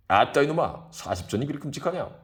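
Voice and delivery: put-on loud drunken jeer at his friend; drunken scolding. Drunk Kim jeering at Chisam over the price. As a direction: bark at him, half-drunk.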